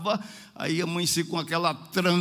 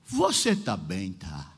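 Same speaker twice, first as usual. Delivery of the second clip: low, slow voice, fading away at the end; trembling sick woman; 10 semitones lower, slower than usual. Retold or imitated. Sick sister checks on her visitor, weak and trembling. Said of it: "ela tava tremendo".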